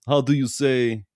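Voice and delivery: mock Russian, searching for the word; second-language speaker in fake Russian; hack Russian accent. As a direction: put on a cliché Russian accent. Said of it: "when they go".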